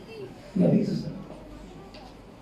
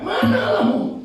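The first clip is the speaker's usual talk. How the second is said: high-pitched mock shout; imitated taunting yell; 3 dB louder than usual. Enemies taunting the psalmist, acted high-pitched yell. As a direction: call it out high, mocking the believer. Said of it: "Orang sekitarnya berteriak".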